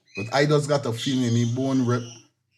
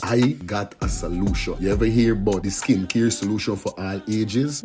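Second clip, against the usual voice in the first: playful radio skit between two friends. Acted. Host acting a friend pitching skincare, lightly played. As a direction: act out a street chat selling a product.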